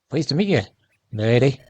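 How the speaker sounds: slight Irish lilt for a game character; Irish accent. Acted. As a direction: read it with a hint of Irish. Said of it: "I just sound Irish".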